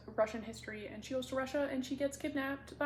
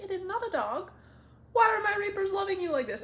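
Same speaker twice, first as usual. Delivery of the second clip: exasperated god; 9 semitones higher, 7 dB louder than usual. Retold or imitated. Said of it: "And he's like".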